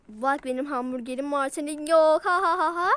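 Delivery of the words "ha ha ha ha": a mild teasing fake laugh; mocking laugh. Shown as a demonstration. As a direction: laugh at her to rub it in. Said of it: "Böyle oluyor". (alaycı sahte gülüş)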